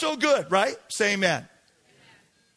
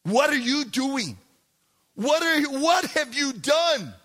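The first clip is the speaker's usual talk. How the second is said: ridicule; 2 semitones higher than usual. Acted. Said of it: "response now is ridicule".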